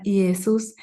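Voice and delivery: Jesús said as ee-eh-SOOS, the J voiced as a Latin I. Shown as a demonstration. The Greek name Jesús, with a Latin I sound. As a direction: start Jesús with a clear I vowel. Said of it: "con I latina".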